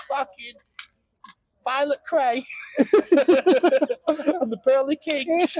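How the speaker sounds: slow, high mock Cockney; Cockney accent. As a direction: drag out a hammed-up Cockney name-drop. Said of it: "can't do an accent".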